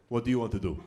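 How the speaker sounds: low voice of a big guy; huge football player. Acted. Huge guys asking each other in a circle, low lumbering role.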